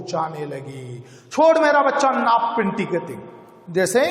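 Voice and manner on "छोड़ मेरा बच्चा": angry shout. Acted. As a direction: snap at her to release the child. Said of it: "चिल्लाकर कहा".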